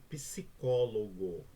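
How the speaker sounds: "psicólogo" slowly, stretched syllable by syllable. Shown as a demonstration. Teacher showing P and S stay together, syllable by syllable. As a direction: spell out the beats of "psicólogo": psi-có-lo-go. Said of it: "eu não separo P do S".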